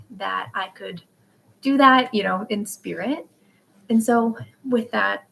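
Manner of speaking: breathing hard after carrying the dog; panting a little between words. Real, not acted. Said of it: "sorry, I'm breathing so hard".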